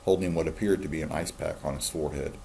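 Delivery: steady read-aloud voice for a class; story narration. A narrator's reading. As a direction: read the novel aloud to students. Teacher reads novel aloud.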